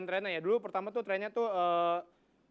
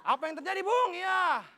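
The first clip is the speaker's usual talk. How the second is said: louder mock multiple-choice commentator; hammed-up caster quiz; quiz-show commentator; 7 dB louder than usual. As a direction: read the options like a game-show host. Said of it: "biarin penonton yang jawab".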